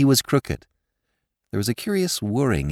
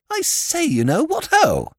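high, startled upper-class silly-ass exclamation; flustered lord's high-pitched cry; emotional lordship; slower than usual. A narrator's reading. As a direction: exclaim in a much higher voice, drawing it out. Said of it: "not without emotion".

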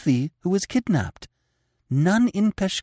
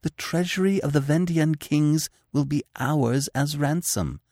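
high, intense, urgent persuasion; passionate pleading; 8 semitones higher than usual. Acted. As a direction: tempt him with passionate urgency. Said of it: "she argued passionately".

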